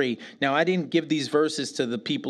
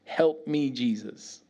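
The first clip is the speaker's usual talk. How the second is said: retold prayer. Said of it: "the whole time I'm like".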